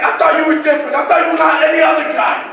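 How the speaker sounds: mock upset shout; imitating her crying outburst; upset girlfriend. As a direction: yell it like the hurt girlfriend. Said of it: "She cried so hard".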